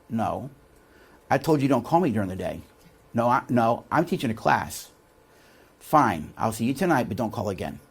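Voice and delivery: low, subdued irritation on the phone; curt phone brush-off. Retold or imitated. Teacher telling his wife not to call during class, curt. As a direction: brush off the caller, voice held down. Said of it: "talk to your wife in that tone".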